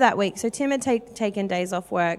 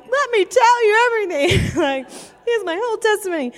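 high, loud mock squeal; bursting with eagerness; 11 semitones higher, 4 dB louder than usual. Inner voice dying to share faith with a mum, bursting eagerness. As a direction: blurt it out, hugely overexcited. Bursting inside while acting cool.

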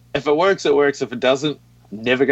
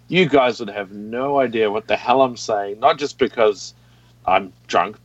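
slowed-down speech. Real, not acted. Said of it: "kinda like what I'm doing now".

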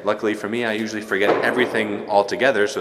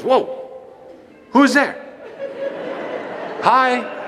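put-on little girl voice; 13 semitones higher, much slower than usual. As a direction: call out like a curious toddler. Toddler greets priest.

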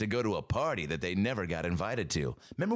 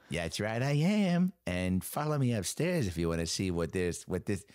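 Betty White voice; 4 semitones lower than usual. Acted. Playing Betty in trailer.

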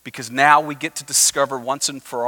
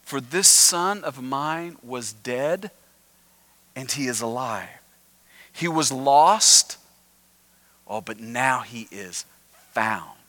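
tender father; slower than usual. Retold or imitated. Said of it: "The father says".

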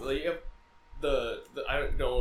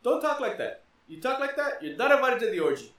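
pompous Zeus; 9 semitones higher than usual. Retold or imitated. Zeus scolding whoever talks while he speaks, booming. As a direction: bellow like an offended king of gods. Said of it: "And he says".

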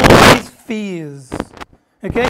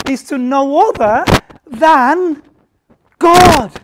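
building sermon; 2 semitones higher than usual. Acted. Preaching builds to climax.

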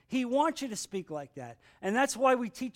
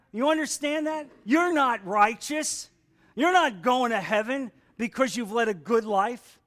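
emphatic preaching; 3 semitones higher, 5 dB louder than usual. Real, not acted.

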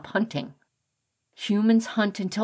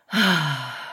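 tired sigh; 3 semitones lower than usual. A narrator's reading. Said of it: "Fred sighed".

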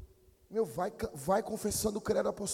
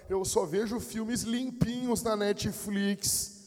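slow, drawn-out mocking imitation; mock pious church member; slower than usual. Church member protesting innocence to pastor, mocking drawl. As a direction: stretch the words in sing-song fake innocence.

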